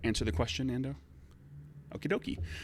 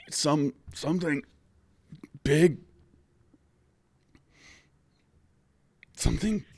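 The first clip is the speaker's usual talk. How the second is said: higher, broken words with long gaps; injured, mouth-damaged speech; 6 semitones higher than usual. Acted. Beaten coach trying to say what happened, halting injured speech. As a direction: force words out past a bitten tongue. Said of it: "speaking through multiple missing teeth, and swollen lips".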